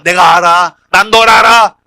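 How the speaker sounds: 힘주어 크게 단언하는 연기; 상대의 항변을 큰소리로 눌러 버리기; 큰소리로 받아치기. Acted. 예수님이 베드로에게 받아치는 상황극. (단호하게 소리쳐 받아치기)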